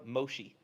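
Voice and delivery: "Moshi" ending in an ee sound; mispronounced name. Retold or imitated. Americans calling the speaker by name, mispronounced. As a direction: say "Moshi" with -ee in place of -eh. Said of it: "everybody kept mispronouncing my name".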